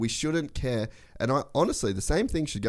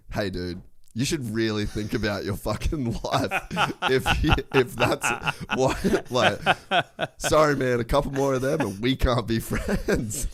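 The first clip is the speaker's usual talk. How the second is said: laughing; 3 semitones higher than usual. Retold or imitated. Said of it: "I'd be like".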